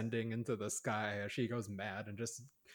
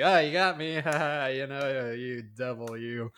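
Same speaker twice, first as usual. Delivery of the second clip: mock startled laugh; 3 semitones higher, 8 dB louder than usual. Viewer teasing the movie after a jump scare, laughing. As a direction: laugh off the scare like you've been tricked. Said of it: "it's just like".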